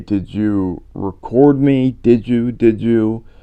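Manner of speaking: eerie, confused, otherworldly ghostly female voice. Recounting EVP recordings, the speaker quotes a female spirit, eerie voice. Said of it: "in an eerie voice".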